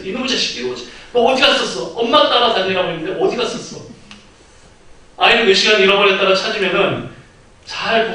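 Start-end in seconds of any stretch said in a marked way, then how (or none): 0.0-3.8 put-on high, fast scolding of a lost child; mock-angry mom yelling at her child; scolding mother. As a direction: snap at the kid in relief and anger. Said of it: "막 아이를 다그치고 혼내면서".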